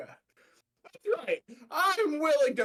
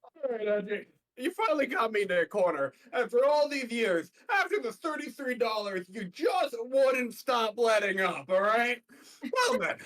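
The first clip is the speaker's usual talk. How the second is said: villain monologue; 2 semitones higher than usual. Acted. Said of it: "villain monologue for Larry".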